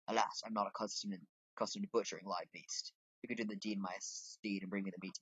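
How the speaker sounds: measured, slightly formal character voice; lightly voiced game cook. Cook asking an errand runner to butcher, lightly voiced. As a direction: play the apologetic cook with a light touch.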